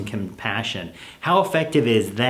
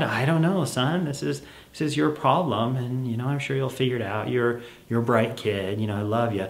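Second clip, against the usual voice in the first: softer, calm reassurance; gentle parent; 4 dB quieter than usual. Acted. Parent calmly refusing child's request, soft and kind. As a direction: hold the line kindly. Parent soothing in role-play.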